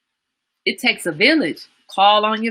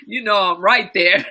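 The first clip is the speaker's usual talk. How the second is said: laughing. Real, not acted. Amused agreement with Jana.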